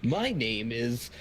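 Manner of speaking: slow, lightly put-on intro voice; drawn-out mock self-introduction; goofy impersonation. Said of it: "Best impersonation".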